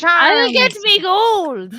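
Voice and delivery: leprechaun voice. Acted. Joins leprechaun bit.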